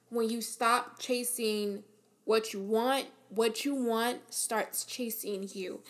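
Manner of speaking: slow, deliberate repeat of a quote. Real, not acted. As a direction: spell it out slowly, pausing after "chasing". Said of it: "I wanna say that again, just in case I, um, I said it too fast".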